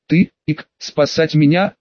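tipsy, hiccup mid-line; surprised drunk girl, hiccuping. Acted. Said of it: "удивилась Люси".

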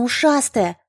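high squeaky gnome; chirpy little gnome girl. A narrator's reading. Gnome addresses elf.

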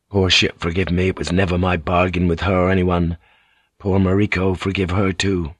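understated, low-pitched regret; regretful pilot. Acted. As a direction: talk sorrowfully to yourself. Pilot murmurs regret to his ship.

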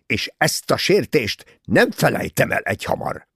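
outraged, loud and high, dragging out key words; indignant fury. A narrator's reading. Bessner defending himself against a murder suspicion, furious. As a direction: thunder with offended pride. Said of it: "Bessner dühösen becsukta a táskáját".

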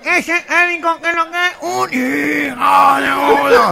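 lightly mimicked megaphone announcer, nasal; imitated gangoso rallying the crowd. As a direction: call it out through an imagined megaphone. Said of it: "uno en un megáfono dice".

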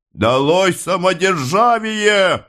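a high, slow rallying cry; rally the crowd, stretching every word; crowd outcry. A narrator's reading. Protester shouts against the autocracy over the police, high rallying cry.

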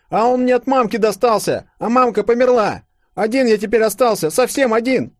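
put-on high, loud tearful boy; orphan boy lamenting. A narrator's reading. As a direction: plead your loneliness. (паренёк со слезами жалуется)

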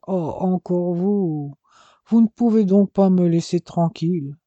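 slow, drowsy annoyance; half-asleep and put out; sleepy grumble. Acted. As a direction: groan at being woken. Woken brother grumbles.

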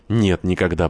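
ordinary delivery, nothing marked

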